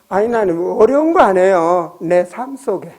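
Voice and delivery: ordinary talk, nothing marked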